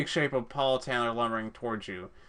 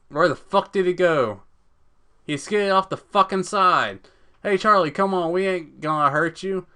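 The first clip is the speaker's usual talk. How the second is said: higher, louder redneck calls; hunters calling out; 6 semitones higher, 5 dB louder than usual. Acted. Brothers shouting for Charlie in the woods. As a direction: call into the dark gully.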